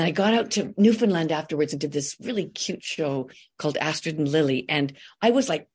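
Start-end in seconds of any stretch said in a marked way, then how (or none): none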